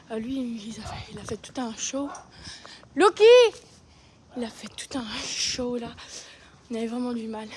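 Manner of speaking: soft whisper near the horses. Real, not acted. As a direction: keep it to a whisper.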